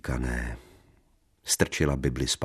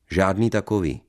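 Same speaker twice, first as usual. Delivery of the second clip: loud, high flat refusal; angry refusal; 4 semitones higher, 5 dB louder than usual. Acted. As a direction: shut her down. Husband refuses loudly. (rozzlobené odmítnutí)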